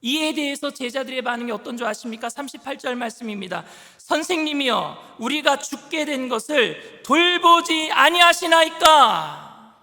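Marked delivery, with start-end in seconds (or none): 4.0-9.7 annoyed plea. Acted. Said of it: "조금 화가 나고 신경질적인 반응인".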